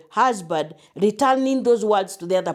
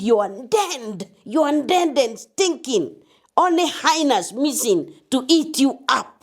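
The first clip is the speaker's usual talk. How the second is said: retold angry scolding, slow and higher-pitched; angry teacher imitation; 5 semitones higher than usual. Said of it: "in his anger, he said".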